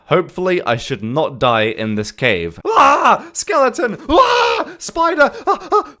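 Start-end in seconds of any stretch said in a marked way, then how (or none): 2.7-3.3 high shriek of fright; startled scream. Real, not acted. Startled by mob in cave. 3.3-4.0 panicked shout. Real, not acted. Spots a skeleton in cave. 4.1-6.0 high frightened shrieks; panicked yelps. Real, not acted. Startled by spider.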